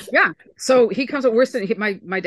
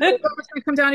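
high, mock-naive brother voice; a high, wide-eyed kid-brother voice; mimicking brother; 7 semitones higher than usual. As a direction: pitch the brother up high and innocent. Brother's quote continues.

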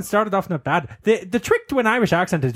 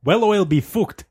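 1 Irish accent; 3 semitones higher than usual. Shown as a demonstration. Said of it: "Now say it all".

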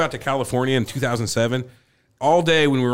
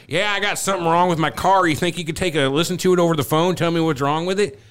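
prank caller; 5 semitones higher than usual. Retold or imitated. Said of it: "they call up this car repair place and they're like".

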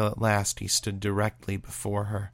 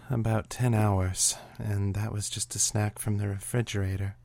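mock forlorn. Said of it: "doing a good impression of forlorn".

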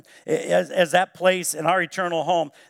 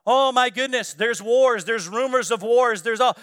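mock-panicked higher, louder voice; 4 semitones higher, 4 dB louder than usual. Preacher mocking panicked angels, a touch of mock panic. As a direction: ham up angels freaking out. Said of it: "freaking out".

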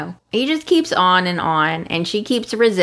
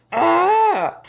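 long, higher-pitched "ah" of dismay; exasperated groan; 7 semitones higher than usual. Real, not acted. Co-host reacting to the soap's kiss, exasperated groan. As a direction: let out a drawn-out, high groan.

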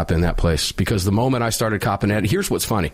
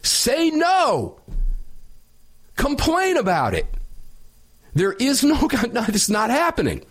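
much higher, worked-up pleading to stand up; exasperated exhortation; 11 semitones higher, slower than usual. Real, not acted. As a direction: urge them on, voice climbing high. Exhorting staff to refuse masks.

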